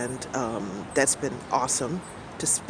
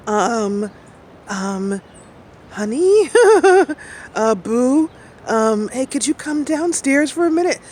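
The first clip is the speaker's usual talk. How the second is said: imitating a nervous husband, much higher and louder; hesitant, pitched-up plea for help; shaky voice; 9 semitones higher, 6 dB louder, slower than usual. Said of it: "With this kinda shaky voice".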